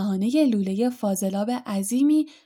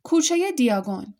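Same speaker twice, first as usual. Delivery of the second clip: mild called-out destination; 5 semitones higher than usual. Acted. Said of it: "فرد فریاد زد".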